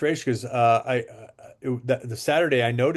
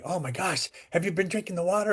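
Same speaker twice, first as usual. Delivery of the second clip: retold scream; 5 semitones higher, 4 dB quieter than usual. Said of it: "acting a little bit overexcited about this water".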